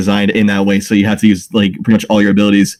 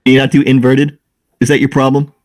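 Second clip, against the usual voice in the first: mock-innocent sarcastic questions; 3 semitones higher than usual. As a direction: tease them with fake concern. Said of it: "Yes, I am speaking sarcastically".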